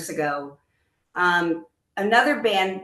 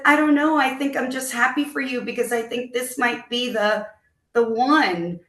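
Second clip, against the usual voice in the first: raised voice, retelling her teary answer; wife lightly voicing her tearful reply to husband, higher; higher retold reply; 4 semitones higher than usual. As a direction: lift the pitch, light and a little emotional.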